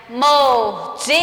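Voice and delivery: MORDIDA slow, leaning on DI; stress on middle syllable. Shown as a demonstration. Teacher asking pupils to spot it, DI stressed in "Mordida". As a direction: draw out the DI of "Mordida". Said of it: "É o di, né? Que eu falo mais".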